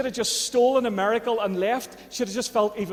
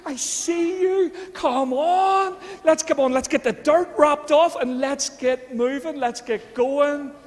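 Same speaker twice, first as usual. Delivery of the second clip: higher and louder, urging them on; rousing encouragement; 5 semitones higher, 3 dB louder, slower than usual. Retold or imitated. God rallying the listener to get moving, louder and urgent. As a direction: call them up out of the dirt. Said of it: "he goes".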